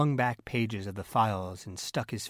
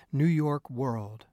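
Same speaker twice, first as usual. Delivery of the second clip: slow, high, loud excitement; excited; 4 semitones higher, 5 dB louder, slower than usual. A narrator's reading. Editor recalling the famous cable, excited and emphatic. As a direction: savour the name with relish. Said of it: "excitedly pushing back his straw hat".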